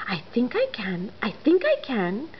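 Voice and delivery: whispered effort; straining whisper. Acted. Engine starting the climb, whispered. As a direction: breathe it out under strain.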